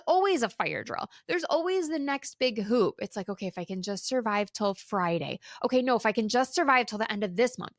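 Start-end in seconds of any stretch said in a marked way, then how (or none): 3.3-5.4 weary self-talk. Retold or imitated. Imitating own coping thoughts. 5.6-7.7 fast, pushing on to the next deadline; quick anxious inner voice; hurried self-talk. Retold or imitated. Imitating own coping thoughts.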